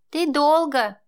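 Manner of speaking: put-on a small boy sulking at his dad; pouty child voice; sulky child. A narrator's reading. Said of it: "насупился сын".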